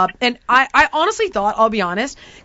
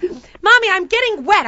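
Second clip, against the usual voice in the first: lightly voiced little kid, higher pitch; whiny child; 5 semitones higher than usual. Five-year-old complaining to her mother in the kayak, whiny. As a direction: complain to Mommy like a small child.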